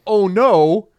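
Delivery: high, loud, drawn-out comic panic; mock dismay. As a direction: wail it as a horrified Moses, hammed up. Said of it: "nervous, wants to check up on him".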